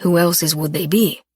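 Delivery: firm. A narrator's reading. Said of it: "he said in a firm voice".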